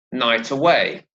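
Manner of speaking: "night" stressed, "away" weighted on "way", falling. Shown as a demonstration. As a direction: hit "night", then the "way" of "away". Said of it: "a stress on the word night".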